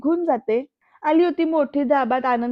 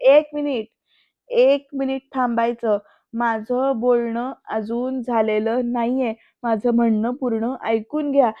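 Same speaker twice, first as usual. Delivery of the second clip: firm, raised-voice interruption, restrained; acted scolding shout; slower than usual. Anandi stopping her sister-in-law from interrupting, mildly raised voice. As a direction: cut in firmly, then slow down insistently. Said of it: "आनंदी जोरात ओरडते तिच्यावर".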